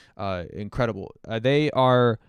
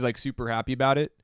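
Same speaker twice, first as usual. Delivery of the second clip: ordinary delivery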